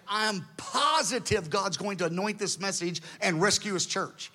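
emphatic, certain declaration; strong conviction. Retold or imitated. Preacher answering upset people, firmly convinced. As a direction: insist on it with confidence. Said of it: "I say it strong".

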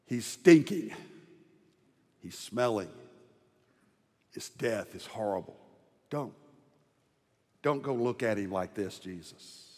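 a hint of Martha pleading; lightly voiced pleading sister; skeptical Martha. Martha begs Jesus not to open the tomb, lightly pleading. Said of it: "Martha herself is skeptical and says".

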